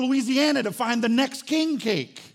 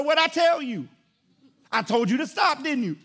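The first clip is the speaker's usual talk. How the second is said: mock parental scolding; 3 semitones higher, 3 dB louder than usual. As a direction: scold the kids like a fed-up father. Father scolding crying children.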